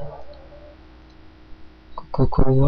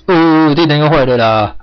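slow, louder, higher whining complaint; exasperated whine; 4 semitones higher, 4 dB louder, slower than usual. Real, not acted. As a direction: drag it out in frustration. Lights broken yet again.

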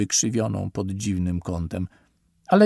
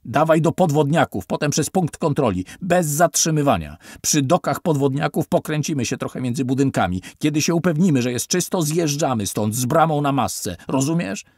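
loud, raised orders over sirens; urgent shouting orders; 4 semitones higher, 3 dB louder than usual. Acted. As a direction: bark the escape plan at the driver. (głośne, pospieszne rozkazy)

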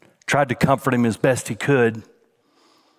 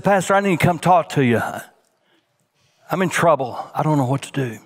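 retold panic; 4 semitones higher, faster than usual. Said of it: "the husband's hysterical".

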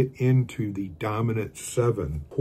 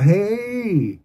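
shouted hey; 9 semitones higher than usual. Real, not acted. Cheerful call to viewers.

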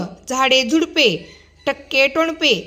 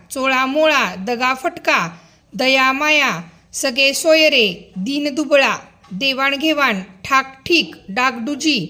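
word list recitation; slower than usual. Acted. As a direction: read each pair out crisply for children to repeat. Teacher reads compound word list.

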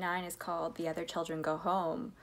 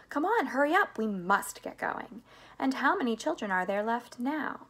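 higher, louder opening burst; lively Wonka urgency; eager hurrying; 5 semitones higher, 3 dB louder than usual. Acted. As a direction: chivvy the group along eagerly. Wonka hurrying the others along.

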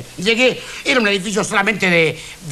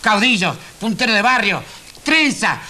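mock distaste, word by word; acted disgust, separated by pauses; disgusted echo. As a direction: echo each term with disdain. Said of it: "Con cara de asco me dijo".

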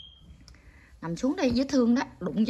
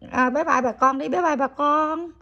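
high, drawn-out bye-bye; cooed goodbye; 5 semitones higher, slower than usual. Real, not acted. Grandmother prompts the pet to say goodbye, cooed farewell. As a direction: coo a slow, lifted farewell.

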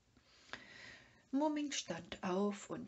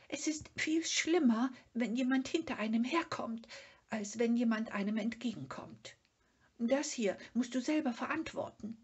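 high, fast, fretful little creature; anxious Sniff; 5 semitones higher, 5 dB louder, faster than usual. A narrator's reading. Sniff lecturing Mumin about dangers from behind, high and fretful. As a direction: rattle off the worry quickly. Schnüfferl character voice.

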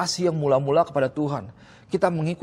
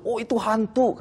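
mock scared cry; 6 semitones higher than usual. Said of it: "terkejut dan berseru".

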